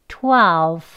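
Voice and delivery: twelve drawn out, each sound clear; slow twelve. Shown as a demonstration. Teacher leading students slowly, careful twelve. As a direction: stretch twelve out for learners to copy. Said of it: "천천히 같이 해보겠습니다".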